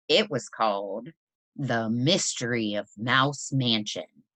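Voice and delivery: put-on reading a picture book aloud to children; story narration. A narrator's reading. Teacher reading Library Mouse to her class, storytelling voice. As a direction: tell the story gently, like at story time.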